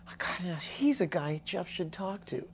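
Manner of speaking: high excited whisper; mom's excited whisper. Retold or imitated. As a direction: whisper it like a mom with a brilliant idea. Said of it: "reminded my mom of".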